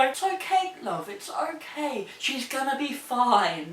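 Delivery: soft, gentle reassurance; calm down a panicking stranger kindly; soothing elderly couple. Retold or imitated. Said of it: "And they just go".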